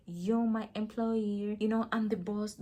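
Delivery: a mild mock of a bossy employer; bossy attitude. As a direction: lightly play the boss talking down to staff. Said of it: "that kind of attitude".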